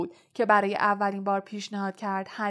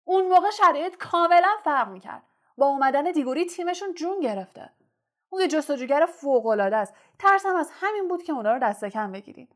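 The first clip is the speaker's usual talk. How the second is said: loud, higher, fast angry yelling; captain shouting at his careless team, furious; 4 semitones higher, 3 dB louder, faster than usual. Acted. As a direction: rage at the team, pounding it home. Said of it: "فریاد زد".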